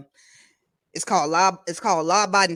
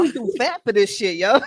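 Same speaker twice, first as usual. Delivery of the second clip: out of breath; 4 semitones higher, 3 dB louder than usual. Real, not acted. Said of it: "Let me catch my breath".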